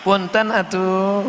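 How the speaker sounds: a hint of a meek "excuse me"; polite Sundanese apology. Sundanese man whose foot is stepped on, slow and meek. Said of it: "Orang Sunda ini lembut".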